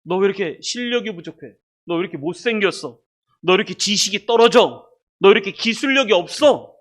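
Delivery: imagined nagging rebuke; mock reproach. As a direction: pretend to tell someone off, pushing harder. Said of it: "책망을 하시지를 않아요".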